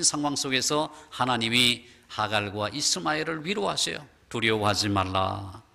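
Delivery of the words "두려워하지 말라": comforting God voice. Acted. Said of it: "그렇게 위로해 주십니다".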